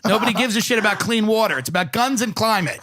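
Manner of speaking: oily agent selling hard, laughing through it; sleazy agent. Pretend. Pretend agent pitching to a young activist, put-on sleazy voice. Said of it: "this agent who was like".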